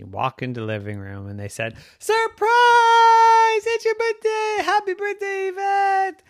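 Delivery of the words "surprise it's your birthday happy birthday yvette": much higher, loud party cheer; squealing high surprise cheer; excited surprise shout. A narrator's reading. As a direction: shout it as the family jumps out.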